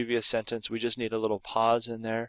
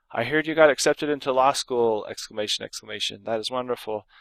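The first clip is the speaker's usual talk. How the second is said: overdone excitement. Shown as a demonstration. Teacher demoing an overdone exclamation, hammed-up. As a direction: pile on the enthusiasm. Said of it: "that's overdoing it".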